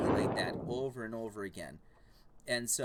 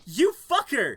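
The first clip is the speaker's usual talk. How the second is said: laughing shout; 11 semitones higher, 13 dB louder than usual. Retold or imitated. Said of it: "And he goes".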